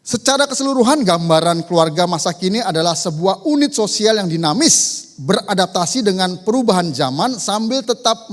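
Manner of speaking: loud, emphatic sermon reading; forceful read-out. Acted. Preacher summing up the modern family for congregation, forceful read-out. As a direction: proclaim it firmly to the whole room. Reads the summary at full force.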